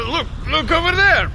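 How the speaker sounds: high, fast, over-eager pointing out; a hasty, excited "look there"; sudden distraction. Acted. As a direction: blurt it out to change the subject. Changing subject after awkward cough.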